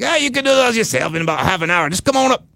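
high, hammed-up English accent slipping into redneck; accidentally redneck English accent. Pest guy telling homeowner to clean gutters himself, botched English-redneck accent. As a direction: attempt English and land in hillbilly. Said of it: "I sounded like redneck there".

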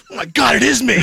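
laughing it out as it dawns on him; half-laughing, high disbelief; laughing realization. Real, not acted. To his wife, realizing he stinks, laughing.

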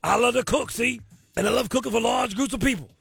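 lightly put-on Cajun man voice; bad Cajun accent, hammed up. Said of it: "my very bad Cajun man impersonation".

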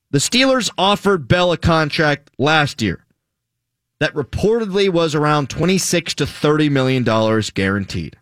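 slow and deliberate, each word clear; over enunciating. Shown as a demonstration. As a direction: spell it out slowly like a lesson. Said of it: "So I'll say it one more time slowly".

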